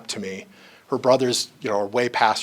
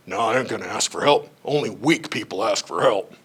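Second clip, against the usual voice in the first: stubborn stuck worker; 4 semitones lower than usual. Acted. Voicing stuck middle managers' stubbornness.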